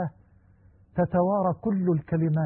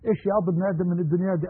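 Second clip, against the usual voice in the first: quick retold question; much faster than usual. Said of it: "الراجل بيقول لصاحبه".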